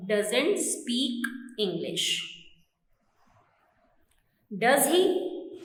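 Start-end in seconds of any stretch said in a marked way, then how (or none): 4.6-5.5 "Does he" with the voice going up, questioning; rising intonation. Shown as a demonstration. Teacher demonstrates an unsure tag question, rising intonation. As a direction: lift the end of "Does he" as if surprised. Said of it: "intonation in the sense of surprising".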